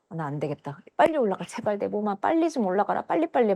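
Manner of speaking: hushed, urgent self-urging; retold panic, kept soft; urgent pleading. Patient begging her body to rise, softly urgent.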